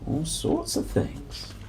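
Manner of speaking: soft slow whisper; hushed aside to the listeners. Real, not acted. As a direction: breathe it out softly. Trails off naming vegetables.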